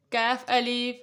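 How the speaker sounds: کاف الف said slowly, leaning on کاف; slow letter reading. Shown as a demonstration. Teacher to children, slow spelling of the letters. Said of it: "کاف کی مختلف شکلیں ہیں".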